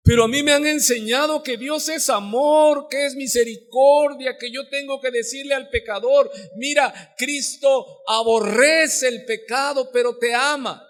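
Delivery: high-pitched, insistent mock protest; acted indignant churchgoer; protesting objection. Voices an objecting believer's protest.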